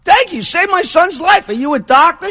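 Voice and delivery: high, excited thanks; relieved dad thanking a stranger; grateful father. Acted. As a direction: gush with relief and gratitude. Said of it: "His father's like".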